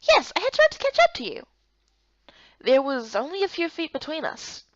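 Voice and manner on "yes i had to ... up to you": out of breath. Acted. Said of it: "You're still out of breath?".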